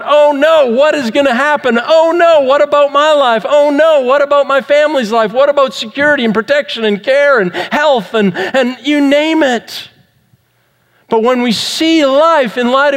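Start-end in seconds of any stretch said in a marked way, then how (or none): 0.0-9.9 hammed-up worried "oh no"; worried fretting. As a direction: play the panicked worrier listing fears. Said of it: "we get worried about".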